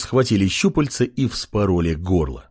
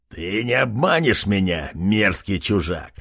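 scornful chief; 3 semitones lower than usual. Acted. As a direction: spit contempt at the stranger. Chief rejects the stranger.

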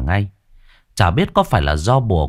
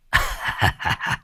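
gleeful chuckle; 6 dB quieter than usual. Acted. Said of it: "khoái chí".

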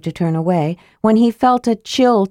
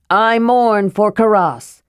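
mild shout; slower than usual. Acted. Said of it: "he shouted loudly".

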